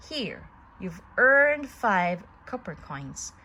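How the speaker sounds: slow, loud showman's voice; puppet master voice. A narrator's reading. Puppet master paying Pinocchio, booming showman voice. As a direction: boom it like a proud showman.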